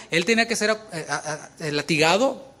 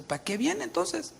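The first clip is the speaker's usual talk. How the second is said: exasperated; 9 semitones higher than usual. Retold or imitated. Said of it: "y dices tú".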